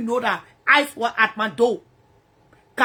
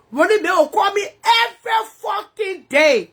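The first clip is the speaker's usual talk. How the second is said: shouting; 5 semitones higher than usual. Real, not acted. Heated complaint.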